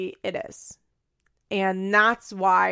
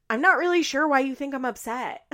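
higher-pitched feigned innocence; Farrah; 5 semitones higher, 3 dB louder than usual. Retold or imitated. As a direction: play baffled denial as a mockery. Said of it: "doing, like, exact opposites".

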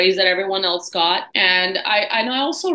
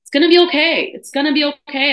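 retold reassurance; 6 semitones higher, 5 dB louder than usual. Reassures her crying mother.

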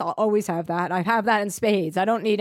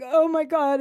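mock wail; 8 semitones higher, 5 dB louder, slower than usual. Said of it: "I just started bawling and I was like".

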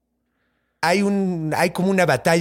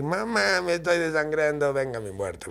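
dying plea; 6 dB quieter than usual. Retold or imitated. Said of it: "le dice quién lo mató".

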